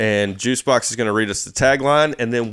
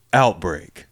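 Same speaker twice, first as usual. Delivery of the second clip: movie trailer voice; 4 semitones lower, slower than usual. Shown as a demonstration. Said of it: "you have to do the movie voice".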